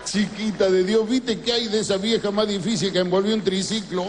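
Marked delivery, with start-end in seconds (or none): 0.0-1.1 slow, rising street-flirt line; lightly voiced cordobés flirt; flirty compliment.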